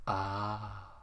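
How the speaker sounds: ordinary delivery, nothing marked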